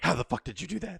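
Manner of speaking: high, loud astonished question; retold amazement. Quoting Mags at spawned popcorn, loud amazement.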